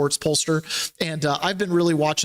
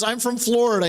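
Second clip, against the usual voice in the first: higher-pitched mimicked reply; retold captive; 6 semitones higher than usual. Third captive naming a home state to the questioner, high-pitched mimicry. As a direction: answer up high as another captive.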